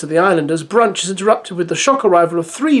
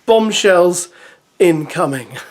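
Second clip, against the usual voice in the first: excited; 4 semitones higher, slower than usual. Real, not acted. Joking warning before bombshells.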